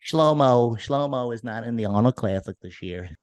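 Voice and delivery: put-on Jewish accent. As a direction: ham up a stereotyped Jewish accent. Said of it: "I was gonna do a Jewish accent".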